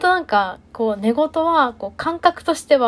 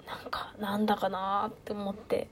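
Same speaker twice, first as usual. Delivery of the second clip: whispered aside; 3 semitones lower, 15 dB quieter than usual. Real, not acted. Muttered aside to herself.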